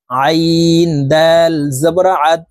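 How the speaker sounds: "আইন" and "আদ" slowly, squeezed from mid-throat; throaty ain. Shown as a demonstration. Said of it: "হলকের মধ্যখান থেকে চাপ দিয়ে উচ্চারণ করব". ("আইন", "আদ": হলকের মধ্যখান থেকে চাপ দিয়ে, ধীরে টেনে)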